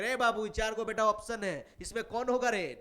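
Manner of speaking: teacher playfully putting pupils on the spot; teacher quizzing pupils. Acted. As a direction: call out a quiz question to the class. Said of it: "online पूछेंगे".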